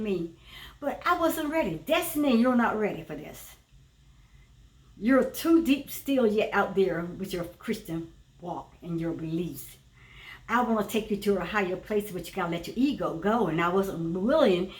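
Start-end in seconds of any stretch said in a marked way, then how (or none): 1.9-13.5 spirit voice. Acted. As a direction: lower voice of a guiding spirit. Divine voice speaking to her.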